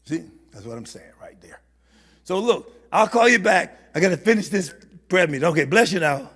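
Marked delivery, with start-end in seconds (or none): 0.0-1.6 whispered aside to the crowd; hushed, conspiratorial whisper. Real, not acted. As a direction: drop to a whisper so the caller can't hear. Aside while caller is on phone.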